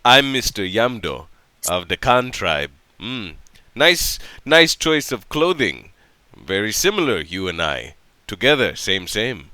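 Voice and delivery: low, slow character voice with pauses; Yamdo, friendly tribesman. Acted. Yamdo admires a stranger's clothes, low and unhurried. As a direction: greet a new friend in slow, low, broken phrases.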